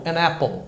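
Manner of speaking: "an apple" run together as "a-napple"; normal linked speech. Shown as a demonstration. Teacher shows the phrase said normally, linked N. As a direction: link the N straight into "apple". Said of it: "Aí eu posso falar normal".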